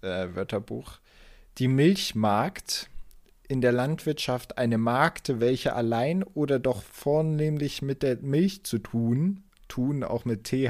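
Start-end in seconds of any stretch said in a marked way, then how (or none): 1.6-9.4 slow, formal quotation reading; reading aloud. Shown as a demonstration. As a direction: read the old dictionary entry out slowly. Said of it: "ich zitiere mal hier ein, ein altes, äh, Wörterbuch".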